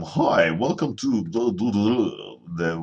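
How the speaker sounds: lightly hammed-up video intro voice; YouTube narrator voice. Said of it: "with a YouTube narrator voice".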